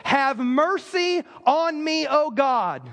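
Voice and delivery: slow, drawn-out plea; begging, pleading. Retold or imitated. David begins his prayer of repentance, begging. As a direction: plead slowly, as if praying to God. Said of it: "begging, pleading right out of the gate".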